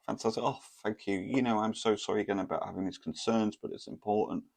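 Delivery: high, pleased mock girlfriend voice; imitating her. Telling the crowd about his date, a high gushing imitation of her. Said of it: "she was like".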